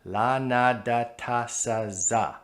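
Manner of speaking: "La, na, da, ta, sa, za" all with the tip on the ridge; same tongue tip. Shown as a demonstration. Teacher showing the shared tongue place. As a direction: tap each syllable at the same spot. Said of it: "They are all the same".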